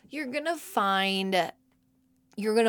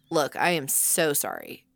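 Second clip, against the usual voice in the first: slow, measured mock-solemn apology; lightly voiced contrite kid; imitating son's apology; 3 semitones lower than usual. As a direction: explain it slowly, like a grave little grown-up. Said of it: "That's how he talks to me".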